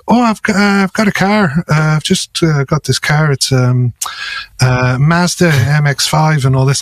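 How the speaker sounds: lightly imitated, wobbly Irish accent; attempted Irish accent. Quoting an Irish friend about his car, shaky Irish accent. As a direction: have a rough go at an Irish accent. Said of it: "Indian, was he?".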